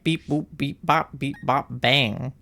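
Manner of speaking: rhythmic mimicked beeps and boops; staccato nonsense syllables on a beat; imitating audio clip. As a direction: parrot a catchy sound bite. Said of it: "I always have that audio stuck in my head".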